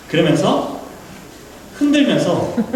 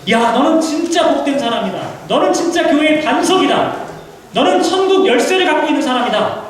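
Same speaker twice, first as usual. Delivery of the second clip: higher, lightly raised voice of glowing praise; lavish praise; 7 semitones higher than usual. Retold or imitated. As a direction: heap praise on him with delight. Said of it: "이렇게 극찬하셨는데". (한껏 높인 목소리로 극찬하는 예수님)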